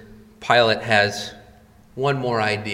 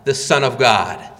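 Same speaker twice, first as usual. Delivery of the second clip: louder, pressing crowd reply; insistent crowd; 5 dB louder than usual. Retold or imitated. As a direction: demand it of Pilate firmly. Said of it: "they respond back".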